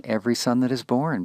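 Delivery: teacher marking the lost emphasis; emphasis on the phrase. Shown as a demonstration. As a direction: push "every son that is born" up and forward. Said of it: "loses the emphasis on".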